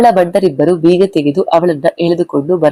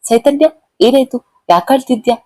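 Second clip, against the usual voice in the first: mildly puzzled, higher-pitched question; high, questioning lift; puzzled call; 7 semitones higher than usual. A narrator's reading. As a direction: call a friend over, lightly wondering what happened. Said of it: "ಅನುಮಾನಿಸುತ್ತಲೇ ಅವರ ಬಳಿ ಬಂದು ಕರೆದಳು".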